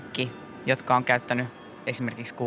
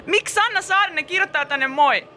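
mock panic; 4 dB louder than usual. Panicked about the stranger's message.

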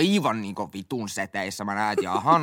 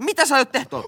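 higher, fast and laughing; laughing question; 5 dB louder than usual. Retold or imitated. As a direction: ask it through a laugh, baffled. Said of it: "Ja mä olin, että".

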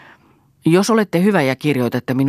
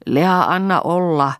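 slow, higher, mildly humble plea; humble request; 5 semitones higher, 3 dB louder, slower than usual. A narrator's reading. Father asking his daughter to let it be, humbly. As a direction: ask humbly, drawing the words out. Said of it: "pyysi isä nöyrästi".

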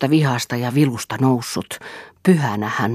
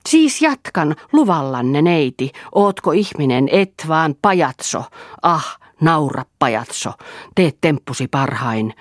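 manic mockery; 3 semitones higher than usual. Selina's manic mocking outburst.

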